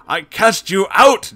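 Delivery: slow, loud high command. Acted. Gino commanding the demon to leave. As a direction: cast out the demon with force. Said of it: "Gino commanded".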